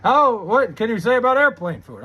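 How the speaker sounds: lightly mimicked observational-comic patter; Jerry Seinfeld yell. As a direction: pitch up a touch like a comic's setup. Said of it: "It's doing the Jerry Seinfeld yell".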